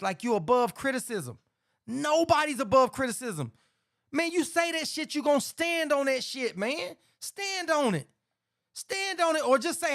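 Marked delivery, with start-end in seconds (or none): 1.9-9.5 heated rant. Real, not acted. Heated rant about standing on words.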